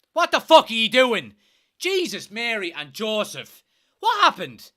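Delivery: high, loud outraged yelling; furious shout. Real, not acted. Fan screaming at his team after a goal, furious. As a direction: scream at the screen in disbelief.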